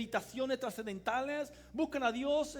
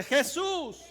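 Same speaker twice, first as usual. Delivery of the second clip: higher, ringing call of "Jesús"; shouted name; 4 semitones higher, 8 dB louder than usual. Shown as a demonstration. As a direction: lead the crowd by shouting it first. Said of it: "Dígalo fuerte". (grito de "Jesús" para que lo repitan)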